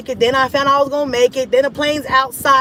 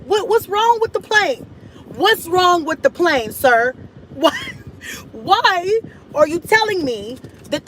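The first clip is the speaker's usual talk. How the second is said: high, frantic suspicious rant; panicky rant; 5 semitones higher than usual. Retold or imitated. On the delayed plane, panicking about the lie. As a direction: spiral into panicked suspicion, pitched up.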